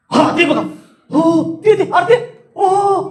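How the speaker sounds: high-pitched gasping wonder; astonishment. Shown as a demonstration. Speaker shows the class wonder at a sight, astonished. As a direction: point and marvel, oohing in amazement. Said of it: "आश्चर्य".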